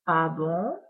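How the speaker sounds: low, soft witch asking; a doubtful witch. Acted. Witch questions Pierre's recipe.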